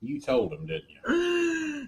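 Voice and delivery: laughing, high squeak on the end. Real, not acted. Host teasing his co-host, laughing. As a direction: tease her through a laugh.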